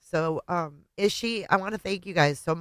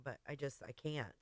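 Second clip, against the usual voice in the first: softer, breaking off in tears; giving in to real crying; 2 semitones lower, 16 dB quieter than usual. Real, not acted. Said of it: "I thought I could get through it without crying".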